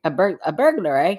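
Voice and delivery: imitating a Canadian accent with "eh?"; mock Canadian. Host copying co-host's Canadian version, mock Canadian. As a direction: echo it as a Canadian would, "eh?". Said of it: "how do the Canadians say burglar?".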